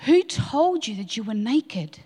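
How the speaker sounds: slow, hushed and moved; emotional. Real, not acted. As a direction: let the question catch in the throat. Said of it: "I'm getting emotional".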